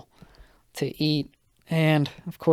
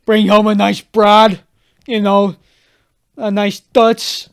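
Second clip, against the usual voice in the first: higher, slow mocking drawl; mock smooth talker; 7 semitones higher, 11 dB louder, slower than usual. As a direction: ham up the ladies' man. Mocking friend's hopes.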